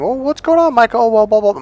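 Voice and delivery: high, loud mock-female chatter; hammed-up nosy small talk; imitated chatty stepmom. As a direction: babble on like a talkative stepmom. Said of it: "she went in the living room".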